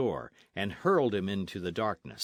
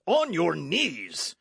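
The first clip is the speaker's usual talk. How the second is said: slow, louder and higher menacing command; terrible voice; 8 semitones higher, 6 dB louder, much slower than usual. Acted. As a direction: drag out the threat word by word. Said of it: "in a terrible voice".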